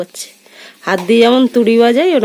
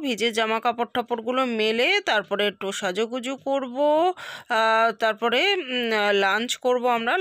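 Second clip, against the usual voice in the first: quiet vlog narration; 3 semitones higher, 9 dB quieter than usual. Real, not acted. Hushed vlog narration of plans.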